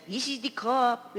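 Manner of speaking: slow, imitated Hispanic accent; drawn-out Hispanic-accented scripture; stronger Hispanic accent. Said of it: "it got a little bit stronger".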